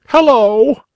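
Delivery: high, loud jolly hello; jolly call. A narrator's reading. Bunny uncle calls to the crying girl, jolly and loud. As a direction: call out cheerily through the window. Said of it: "called Uncle Wiggily in his jolly voice".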